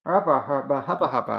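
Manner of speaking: muffled through a pillow. Real, not acted. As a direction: speak with your face pressed in a pillow. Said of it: "why is Lex talking into a pillow now?".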